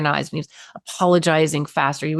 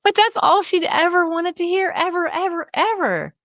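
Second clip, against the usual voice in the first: choked-up; 10 semitones higher than usual. Real, not acted. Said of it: "emotional high voice".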